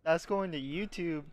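loud, thrilled boast; proud loud declaration; excited boast. Real, not acted. Celebrating the play.

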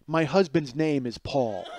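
slow, deliberate mild rebuke; pointed correction. Retold or imitated. Friend's wife correcting Karen, pointedly. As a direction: imitate a slightly offended wife, measured.

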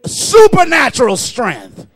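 forceful, driving blessing over the congregation; preacher's fervent declaration; fervent preaching. Real, not acted. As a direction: pray strength over them with a preacher's push.

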